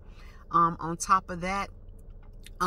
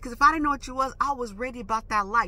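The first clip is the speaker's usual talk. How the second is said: retold tough challenge, higher and louder; street talk; 4 semitones higher, 4 dB louder, faster than usual. Driver warning the girl she was ready, retold street-talk challenge. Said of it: "I'm talking my little street talk".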